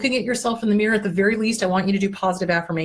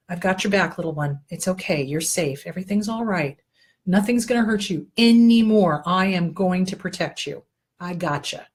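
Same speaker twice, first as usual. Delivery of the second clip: soothing the little one; 3 semitones lower than usual. Acted. Soothing the inner child.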